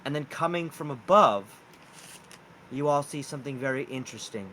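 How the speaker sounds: slow, deliberate scene setting; game master narration. Acted. Game master reveals giant raccoons at the campfire, slow narration. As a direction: draw out the reveal piece by piece.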